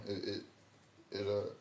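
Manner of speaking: talking through the hiccups. Real, not acted. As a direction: hiccup catching the words. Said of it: "excuse me, I got the hiccups".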